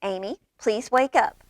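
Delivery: gentle coaxing plea; mother at the bedside: mild gentle coax; very nicely. Acted. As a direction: ask sweetly, mildly. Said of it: "said very nicely".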